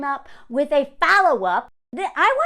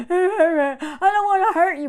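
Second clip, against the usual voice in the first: slow, put-on sincere breakup voice; mock fake-sincere man; 5 semitones higher, 5 dB louder, slower than usual. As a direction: fake tenderness, hammed up. Mocking a breakup line.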